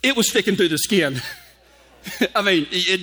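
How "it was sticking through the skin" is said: doctor. Retold or imitated. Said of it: "He goes".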